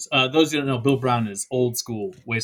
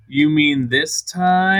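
slow smug reveal; 5 dB louder, much slower than usual. Retold or imitated. Hef smugly reveals the tie.

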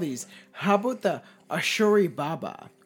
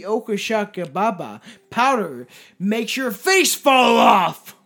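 rising to a shout; 2 semitones higher, 6 dB louder than usual. Real, not acted. Building up to the scary punchline.

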